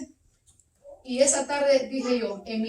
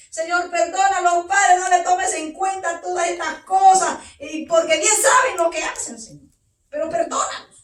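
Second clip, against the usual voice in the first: louder, pleading cry to God; reliving a desperate prayer, raised and pleading; 4 semitones higher, 4 dB louder than usual. Retold or imitated. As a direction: beg the Lord for their pardon. Retold tearful prayer.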